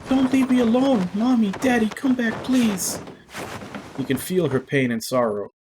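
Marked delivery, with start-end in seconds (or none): 0.1-3.0 high, louder tearful wail; anguished cry. A narrator's reading. Girl crying out to her parents, loud and tearful. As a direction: call after them as they go.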